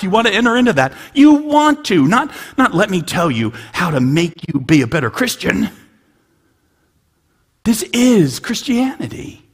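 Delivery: high, loud, building to a cry; fervent preaching shout. Real, not acted. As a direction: preach it out at full force.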